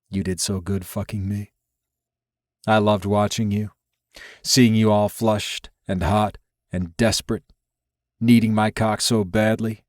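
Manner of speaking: a hint of murmured pillow talk; Dante, admiring lover.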